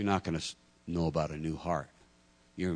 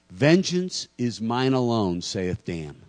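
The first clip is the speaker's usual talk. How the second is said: slow, loud, higher-pitched mock-biblical decree; mock scripture proclamation; 4 semitones higher, 7 dB louder, slower than usual. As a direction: proclaim it like a joke prophet.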